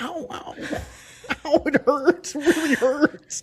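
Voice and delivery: high, laughing, whimpering ows; hammed-up wimp crying over a cut; mock whiny pain. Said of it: "just be like".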